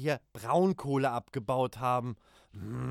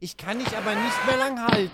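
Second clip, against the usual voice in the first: straining; 6 semitones higher, 5 dB louder, faster than usual. Acted. Straining to hold friend.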